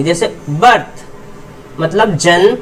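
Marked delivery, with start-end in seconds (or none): 0.5-1.0 "बर्थ" with I said as short अ; short "a" vowel. Shown as a demonstration. Teacher showing students the I in "बर्थ", short "uh" sound. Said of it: "आई को अ बोलेंगे".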